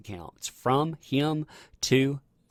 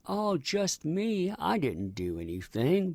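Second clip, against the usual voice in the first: mock innocent; 8 semitones higher, slower than usual. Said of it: "he loves to pretend".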